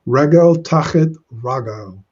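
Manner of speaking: "Regel" with e vowels, then "ragel" with a's; pausal vowel. Shown as a demonstration. Teacher reads the verse to show the pausal "ragel". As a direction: contrast "Regel" and "ragel" clearly. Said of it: "Notice the heightening there".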